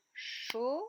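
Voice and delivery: "chocolat" as cho, co, la with long pauses; one isolated beat per syllable of "chocolat"; clapped-out syllables. Shown as a demonstration. Teacher claps the word for pupils, syllables far apart. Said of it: "je frappe dans mes mains".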